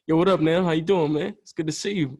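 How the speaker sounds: rough attempt at a smooth rapper's voice. Rapper greeting a younger artist, loosely imitated smooth voice. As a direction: lightly imitate his smooth, easygoing greeting. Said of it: "I'm probably doing a terrible accent".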